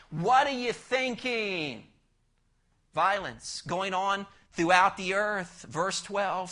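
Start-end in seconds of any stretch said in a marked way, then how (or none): 0.1-1.9 disappointed God. Acted. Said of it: "God's looking down at the young person going".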